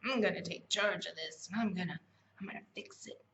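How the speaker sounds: lightly put-on Southern accent; pushy take-charge talk with a Southern twang. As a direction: slip into a mild Southern accent. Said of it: "I'm doing this Southern accent".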